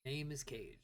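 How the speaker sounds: low brooding edgelord voice; brooding fake-deep mutter. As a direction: mutter it dark and moody. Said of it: "Gotta make it my edgelord voice".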